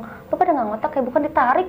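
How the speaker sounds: mock yell at the guys; mild retold yell. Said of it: "Gue teriak dong".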